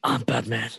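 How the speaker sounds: mock superhero voice; put-on caped crusader voice; Christian Bale's Batman. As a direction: do a movie vigilante impression. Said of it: "for Christian Bale's Batman".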